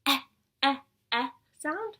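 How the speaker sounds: eh said as a short open vowel. Shown as a demonstration. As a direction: clip eh, eh short. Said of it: "the short eh".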